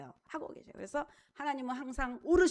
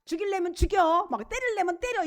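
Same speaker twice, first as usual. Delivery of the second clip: higher-pitched imitation of a daredevil; mock reckless defiance; 5 semitones higher than usual. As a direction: throw out a mock dare, pitched up. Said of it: "함부로 막".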